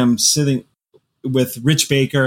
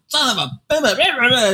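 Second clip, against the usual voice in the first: high, slow strangled curse; 11 semitones higher, much slower than usual. Retold or imitated. Cursing at the coffee machine, choked and dragged out.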